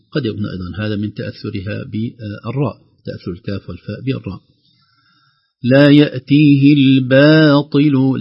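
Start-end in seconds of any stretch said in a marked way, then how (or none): 5.6-8.2 الباطل recited slowly with a light ba. Shown as a demonstration. Teacher to students, modelling a light ba. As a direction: say the ba of الباطل thin, only the ta heavy. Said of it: "الباء لا تفخم أبدًا".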